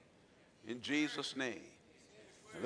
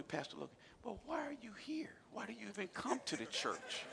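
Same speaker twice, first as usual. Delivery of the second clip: tag; 2 semitones higher, 11 dB quieter than usual. Retold or imitated. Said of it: "the policeman said to him".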